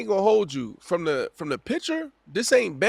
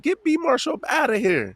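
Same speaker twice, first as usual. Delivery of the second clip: mock angry fan; 9 semitones higher than usual. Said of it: "they said".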